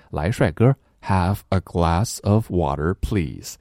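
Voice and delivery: lightly voiced smooth gym salesman. Gym salesman coaxing a customer to buy a membership, lightly voiced. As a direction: coax a customer into signing up, hint of sales charm. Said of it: "销售忽悠你办卡的时候".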